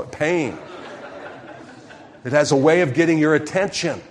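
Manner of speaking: laughing through the words. Real, not acted. Pastor laughs telling the congregation about his burned finger. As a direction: chuckle it out, amused at yourself.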